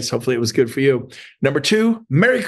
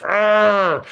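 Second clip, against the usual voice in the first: short mock cave-woman growl; hammed-up growl to show hunger for work; playful growl; 5 semitones higher than usual. Shown as a demonstration. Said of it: "growl a little".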